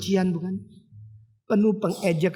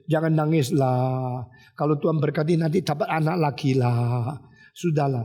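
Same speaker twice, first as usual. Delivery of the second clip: mock consoling; 4 semitones lower than usual. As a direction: imitate a well-meaning comforter. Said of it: "Biasanya yang kita bisa kerjakan yaitu". (menirukan orang menghibur dengan nada rendah)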